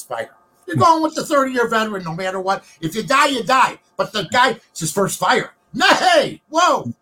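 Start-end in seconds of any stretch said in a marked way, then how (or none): 5.7-6.9 high yelled panic; panicked shout. Pretend. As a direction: yell out in alarm. Mock panic in first fire.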